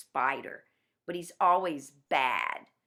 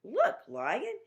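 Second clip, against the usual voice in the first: higher coaxing trickster voice; sly Anansi; 6 semitones higher than usual. Acted. Anansi leading Lion to the rock, higher and coaxing. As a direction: lure him over in a higher voice. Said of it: "and he goes".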